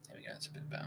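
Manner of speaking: mic gain dropping out; uneven auto gain. Real, not acted. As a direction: voice fading under auto gain. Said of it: "Are you sure your mic is on auto gain?".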